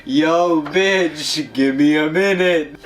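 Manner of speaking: mock street-kid snap at a friend; Jesse impression. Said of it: "Why do you always go to Breaking Bad?".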